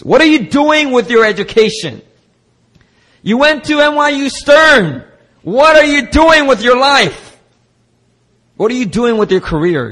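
high, loud contemptuous questioning; a mocking voice of doubt, hammed up; scornful critic. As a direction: belittle the listener's life choices. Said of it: "we may have heard these voices speaking to us".

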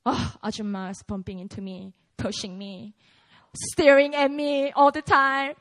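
fast, low, griping complaint; mock grumbling. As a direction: rattle off the gripes. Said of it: "get rid of that hostility".

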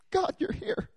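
high, hushed awe; awed realization. Retold or imitated. Pastor sensing God in the room, hushed high awe. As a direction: breathe it out in wonder. Awed sense of God's presence.

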